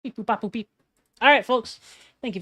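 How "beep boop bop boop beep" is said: toy robot voice. Pretend. Robot noises after Terminator quote.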